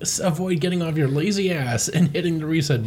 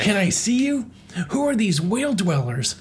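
Fox voice; 6 semitones higher than usual. Acted.

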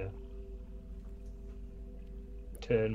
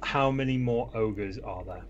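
speaking Orc; 2 semitones lower, slower than usual. Acted. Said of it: "my most fluent Orc".

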